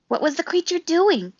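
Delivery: high, quick little weasel voice; a nervous small weasel asking. A narrator's reading. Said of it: "said Dart the Weasel".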